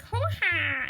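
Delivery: mock weird noise. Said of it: "he makes weird noises like".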